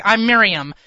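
put-on heavy New York accent on Miriam. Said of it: "not nearly as pretty of a name when you say it with the New York heavy accent".

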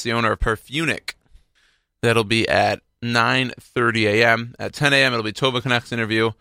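upbeat announcer read, names slowed; radio host rundown. Acted. Radio host previewing the interviews and music for listeners, upbeat announcer read. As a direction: run down the day's show like a DJ.

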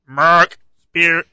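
loud, flat robot voice; mock robot announcing a name. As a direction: say your name like a machine. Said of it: "a robot voice".

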